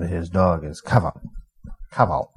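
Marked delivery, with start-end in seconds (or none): 0.8-1.2 "Caval" said "KAV-al"; Welsh name demo. Shown as a demonstration. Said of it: "give you some of the names". 1.9-2.3 "Caval" said "KAV-al"; Welsh name demo. Shown as a demonstration. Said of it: "give you some of the names".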